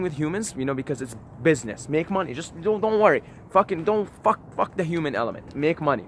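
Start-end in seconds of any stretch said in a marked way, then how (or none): 1.9-6.0 mock greedy boss. Mocking a money-obsessed business mindset.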